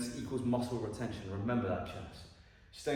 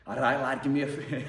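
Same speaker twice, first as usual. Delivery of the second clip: attempted Scouse accent. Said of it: "I'm not even gonna try and do a Scouse accent".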